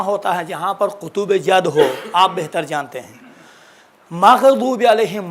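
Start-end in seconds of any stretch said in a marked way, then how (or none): 4.1-5.2 مغضوب علیہم said slowly, louder, with a smooth غ and no bounce; tajweed correction demo; no qalqala. Shown as a demonstration. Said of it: "مغ میں قلقلہ نہیں ہے".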